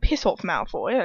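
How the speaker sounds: slow English-accented jibe; put-on English accent, drawn out. Shown as a demonstration. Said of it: "it has to have the English accent".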